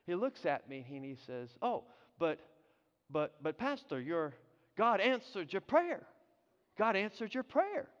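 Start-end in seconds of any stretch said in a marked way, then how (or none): 1.6-7.9 lightly imitated British-sounding Kenyan accent; a hint of Kenyan British English, halting at first. Kenyan driver teasing the pastor, light Kenyan British accent. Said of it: "they kinda have a British accent".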